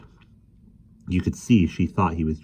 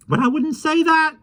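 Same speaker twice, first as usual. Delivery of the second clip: put-on high, lively voice of a small old man; gentle, chatty little fellow; kindly little man; 5 dB louder than usual. Mister Mo speaks.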